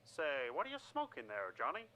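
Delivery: lightly voiced pitchman. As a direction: lean in like a smooth ad man.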